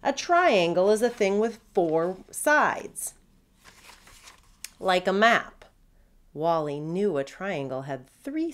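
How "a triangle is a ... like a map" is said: blustering captain. Acted. Redbeard voiced confidently wrong.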